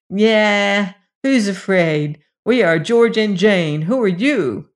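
put-on a boy's loud show of courage. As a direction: shout bravely over the howling. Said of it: "speaking very loud".

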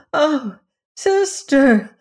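high, loud wailing cry; crying out in grief. A narrator's reading. Slow, high lament over a terrible deed. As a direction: sisters wail at the little peahen, high and loud. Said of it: "they cried".

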